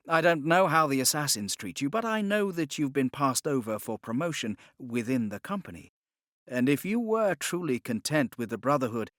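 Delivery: a captive gentleman making his offer; Spencer's voice. Acted. Spencer continues his pitch.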